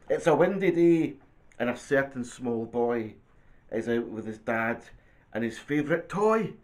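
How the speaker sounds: lively picture-book narration; reading to children. Acted. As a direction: read it to a small child, phrase by phrase. Reads picture book aloud.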